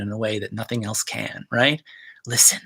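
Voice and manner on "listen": whispered. Shown as a demonstration. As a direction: whisper listen, listen, listen. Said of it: "he's creating with listening".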